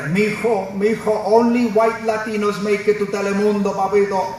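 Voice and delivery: put-on Latino grandpa voice; accented old-country grandfather; imitated grandfather. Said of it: "my gramp, seeing me struggle".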